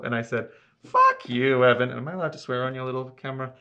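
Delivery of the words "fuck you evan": mock indignant, punched loud on the first words; retold brush-off. To his roommate he thinks is pranking him, mock indignant. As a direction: tell off a prankster, half in jest.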